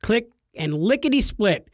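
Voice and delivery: tongue-in-cheek action narrator; playful dramatic narration for the listeners; mock-heroic storytelling. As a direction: tell it like a tall tale of a legendary hero. Mock-heroic tale of cohost's deed.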